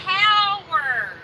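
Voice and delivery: "Tower" loud and drawn out, "TOW-er"; over-enunciate TOWER with a full "ow"; loud corrective "Tower", falling at the end; emphatic enunciation. Shown as a demonstration. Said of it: "it is important that you enunciate".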